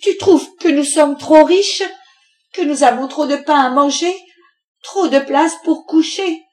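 high, loud, scolding tirade; exploding in anger. A narrator's reading. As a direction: berate your husband with outraged questions. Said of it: "la mère Louveau éclata".

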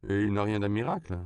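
dry mother. Acted.

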